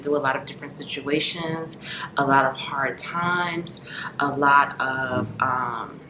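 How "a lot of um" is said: words between sips of tea; talking while sipping tea; sipping hot tea. Real, not acted. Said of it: "I keep sipping my tea".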